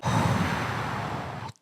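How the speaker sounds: breathy sigh of pain; pained whispered sigh. Real, not acted. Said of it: "my foot is cramping".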